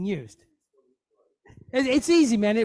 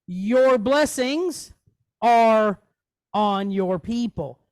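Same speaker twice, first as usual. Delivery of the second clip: slow reading; 6 dB louder, much slower than usual. Shown as a demonstration. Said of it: "Or you can say".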